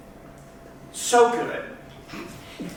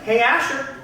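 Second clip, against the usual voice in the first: expectant parents; 5 semitones higher than usual. Acted. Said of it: "They were like".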